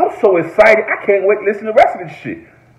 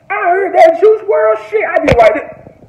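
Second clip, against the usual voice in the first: hyped up; 5 dB louder than usual. Real, not acted. Hyped reaction to the album.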